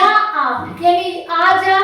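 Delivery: slow, "आ" and "जा" each drawn out; slow, deliberate "आ जा"; stressed monosyllables. Shown as a demonstration. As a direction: linger on "आ" and "जा" as examples. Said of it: "एकाक्षर शब्द में बालाघात".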